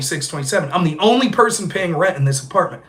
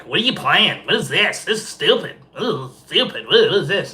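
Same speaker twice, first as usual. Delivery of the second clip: put-on sneering valley-girl whine; mock her snooty dismissal; bratty girl imitation. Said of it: "And this girl's like".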